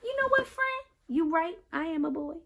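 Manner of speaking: put-on proud child correcting everyone; kid telling family. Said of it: "it's cool to tell them".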